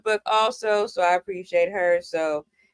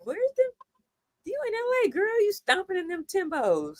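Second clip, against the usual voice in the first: high-pitched mimicry of staring people; baffled onlookers; 9 semitones higher, 5 dB quieter than usual. L.A. people eyeing her Timberlands, high mocking imitation. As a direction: imitate gawking strangers, pitched way up. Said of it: "people were looking at me like".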